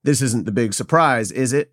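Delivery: lightly voiced unimpressed coworker; a hint of a skeptical employee confronting the boss; half-hearted office grump impression; Stanley. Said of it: "That's my Stanley impression".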